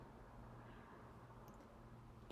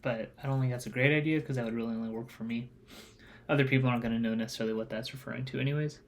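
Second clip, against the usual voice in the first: munching popcorn; faster than usual. Real, not acted. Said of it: "I'm eating popcorn while I'm doing this".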